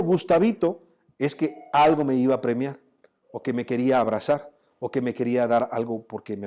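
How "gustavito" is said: fond pet-name call, imitated; lightly voiced tender mother; affectionate mother. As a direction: say it like a mother calling her child lovingly. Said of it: "me decía con cariño".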